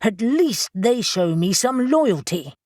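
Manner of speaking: slow, pressed words; slow seething retort; barely contained anger. Acted. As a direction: bite each word out in anger. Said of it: "so angry he could barely speak".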